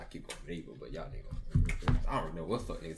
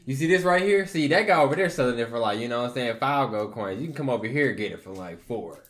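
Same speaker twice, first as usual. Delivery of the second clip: shady merchant; 7 dB louder than usual. Acted. Shady merchant pitching wares.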